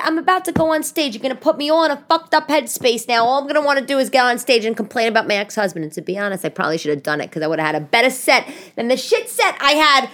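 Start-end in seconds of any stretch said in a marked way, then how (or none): 0.0-5.8 heated, higher-pitched complaint; exasperated rant. Retold or imitated. Comic about to go on stage blaming her ex, exasperated. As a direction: retell railing at an ex on the phone. Retold quarrel with ex.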